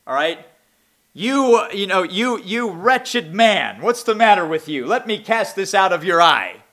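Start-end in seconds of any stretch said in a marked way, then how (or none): 1.1-6.6 judgmental attitude. Acted. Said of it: "That type of an attitude".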